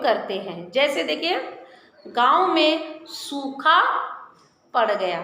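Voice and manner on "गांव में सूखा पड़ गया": slow comma demo. Shown as a demonstration. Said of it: "यहाँ हम अल्प विराम का प्रयोग करेंगे".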